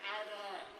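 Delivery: vowels only, slurred "Arr, arr"; vowel movement. Acted. Quaalude user losing English, "Arr, arr" as slurred vowels. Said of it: "English as a second language, having a vowel movement".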